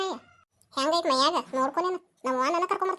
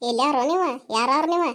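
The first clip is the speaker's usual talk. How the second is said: stern demand; 5 dB louder than usual. Acted. Angry mother confronts boys.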